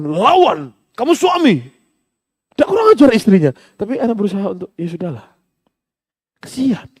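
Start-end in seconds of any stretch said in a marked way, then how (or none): 0.0-3.5 a high, lightly voiced tempting devil; devil's whisper. Devil goading the husband to fight back, lightly voiced high. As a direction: goad him like a devil at his ear. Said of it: "dibisiki setan".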